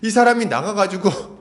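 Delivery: ordinary delivery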